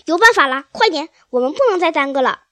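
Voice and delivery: rally them with a loud urgent cry; eager shout. Acted. Mr Fox urges his family to dig, loud urgent shout. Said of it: "他喊道".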